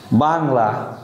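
বাংলা with pressure on বা, falling at the end; stress on first syllable. Shown as a demonstration. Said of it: "বার উপরে যদি আমি একটা stress". (বাংলা শব্দের বা-তে চাপ দিয়ে)

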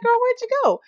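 high playful call to a friend. Retold or imitated. Gamer calling to her Sim, high and loud. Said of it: "I'm like".

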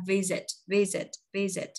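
"Visit" with the S as a Z linked into a short "it"; Z linked through. Shown as a demonstration. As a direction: separate model takes of "Visit", buzzing middle Z. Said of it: "Nói âm Z này qua".

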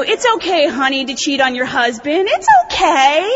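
mock sweet coddling. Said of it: "you know".

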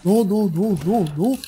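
frantic denial, voice up high; pánico. Real, not acted. Boss nearly kills him. (no, no, no en pánico)

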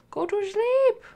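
loud, high "Go to sleep!"; mock angry bedtime shout; shouted order. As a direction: yell it at the stubborn toddler.

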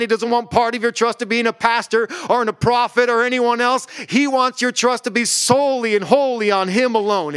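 impassioned sermon delivery; fervent pulpit preaching. Acted. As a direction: preach it with fire to the room. Preaching to congregation.

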